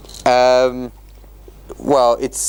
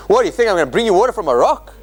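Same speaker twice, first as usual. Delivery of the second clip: fast, mocking, a bit higher; teacher reads Moses mocking the rebels, fast scornful taunt; 6 semitones higher, much faster than usual. Shown as a demonstration. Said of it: "he's taunting them a bit".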